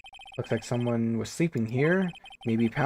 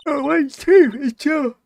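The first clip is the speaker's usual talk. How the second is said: excited; 11 dB louder than usual. Acted. Gushing about the crime scene.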